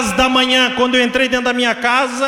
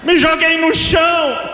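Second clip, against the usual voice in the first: raised, high testimony voice; impassioned preaching; 8 semitones higher than usual. Real, not acted. Preacher recounting falling to the floor, impassioned preaching. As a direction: tell it at a shouted pitch.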